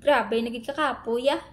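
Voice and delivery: worn-out surrender; exhausted, giving up. Shown as a demonstration. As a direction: sigh it out like you've given up. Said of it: "pagod na pagod ka na".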